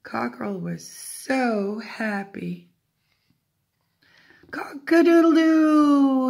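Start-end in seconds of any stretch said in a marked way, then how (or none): 4.5-6.3 high, loud, long crow; triumphant rooster crow. A narrator's reading. Happy cockerel finally gets it right, crowing. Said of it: "he crowed".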